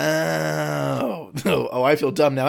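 embarrassed laugh of relief; laughing it off, caught out; sheepish relief. Real, not acted. Mom heated it in a thermos.

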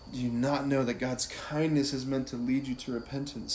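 even, unforced scripture reading; prayerful repetition. Shown as a demonstration. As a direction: repeat the verse reflectively. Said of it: "just repeat it".

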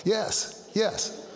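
mock high, startled yes; flustered yes. Pastor answering the bride's sister on the phone, high and flustered. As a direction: squeak out yes, caught off guard.

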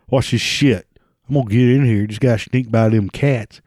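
lightly drawled Southern redneck bragging. Retold or imitated. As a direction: play a cocky hillbilly showing off. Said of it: "there's rednecks even over in China".

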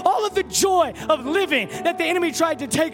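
rousing, driving sermon climax; fervent preacher in full flow; impassioned preaching. Real, not acted. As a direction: hammer out each item to rally the congregation.

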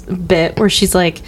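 ordinary delivery

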